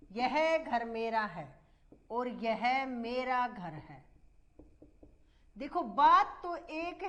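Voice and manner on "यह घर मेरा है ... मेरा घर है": शब्दों का क्रम बदलकर धीरे धीरे दोनों वाक्य; हर शब्द ठहरकर साफ़ बोलो; slow dictation. Shown as a demonstration. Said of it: "कई बार पूछे गए हैं ऐसे शब्द". (शब्दों का हेरफेर समझाती शिक्षिका, धीमी लिखवाने वाली आवाज़)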